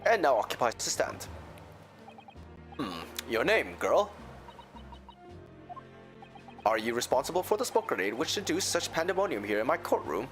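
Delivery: stern judge. Acted. Voices the judge in court.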